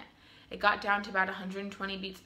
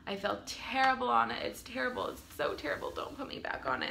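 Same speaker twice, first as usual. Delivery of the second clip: retold pleading. Patient begging nurses against magnesium, hushed plea. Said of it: "I begged them".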